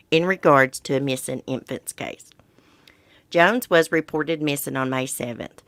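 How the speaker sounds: measured read-aloud of a news report; reporting the facts from a written page; news article read-aloud. Real, not acted.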